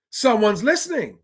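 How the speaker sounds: high, swooping delight; pleased, high-pitched outburst; delighted exclamation. Real, not acted. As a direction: exclaim it high, as if finally heard. Delighted reaction to council housing news.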